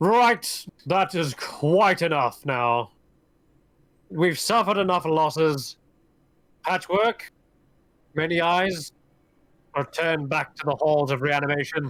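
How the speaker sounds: commanding voice, called out from a distance. Game master voicing an unseen figure calling from around the corner, voice blaring out. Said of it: "you hear a voice blare out".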